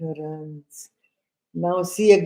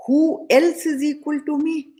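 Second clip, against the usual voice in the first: mock arrogance; 6 semitones higher than usual. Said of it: "Now see, I am rich".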